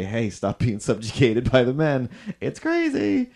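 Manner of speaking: lightly acted, laughing plea that jumps high at the end; mock advice. Pretending to advise gypsy women listeners, in a laughing high plea. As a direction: call out playfully to the listener. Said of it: "I've talked about you enough to say".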